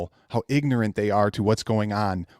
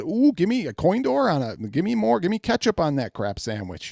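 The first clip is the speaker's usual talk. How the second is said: mocking fanboy; 5 semitones higher than usual. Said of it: "They said".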